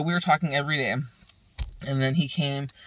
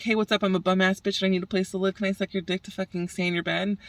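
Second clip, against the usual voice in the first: mocking voice; 5 semitones higher, faster than usual. Mocking a needy woman's pickup.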